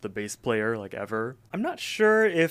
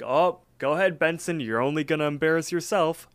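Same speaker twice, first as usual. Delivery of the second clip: raised, higher taunting call; mild retold yell; 5 semitones higher than usual. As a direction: call after him mockingly, half-yelled. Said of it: "Augie kinda yells at them".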